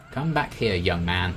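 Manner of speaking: loud stern call of come back here; scolding parent. Pretend.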